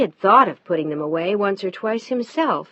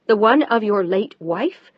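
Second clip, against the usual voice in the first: through clenched teeth; 6 dB louder, slower than usual. Acted. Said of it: "She spoke through clenched teeth".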